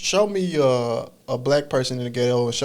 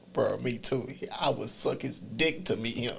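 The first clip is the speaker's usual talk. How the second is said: softer, mumbled quote of Gunner; imitating Gunner; 11 dB quieter than usual. Quoting an online gamer quietly, a bit slow. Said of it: "He says".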